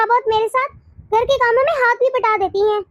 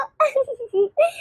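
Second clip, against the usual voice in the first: giggle; 4 dB quieter than usual. Acted. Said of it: "मुझे हंसी आ रही है वैसे".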